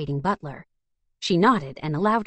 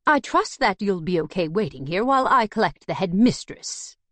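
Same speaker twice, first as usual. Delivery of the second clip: posh voice; 3 semitones higher than usual. Acted. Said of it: "in his posh voice".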